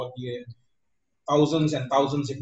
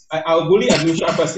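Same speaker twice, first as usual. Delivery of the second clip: louder, teasing call-out; playful loud announcement; 7 dB louder than usual. Real, not acted. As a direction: announce it loudly with a grin. Teasing host picks a panelist.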